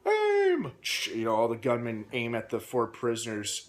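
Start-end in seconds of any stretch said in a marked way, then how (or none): 0.1-0.7 high, loud shouted order; barked command. Retold or imitated. Crazy sergeant commanding the execution squad, loud shouted aim. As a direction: snap the order out to the firing squad. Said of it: "the crazy Southern sergeant is like".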